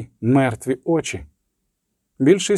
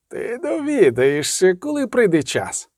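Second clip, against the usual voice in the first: cold malevolent voice; 6 semitones higher than usual. A narrator's reading. Inhuman voice refusing to name itself to the sorceress, cold and malevolent. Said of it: "Голос став металевим, холодним і зловорожим".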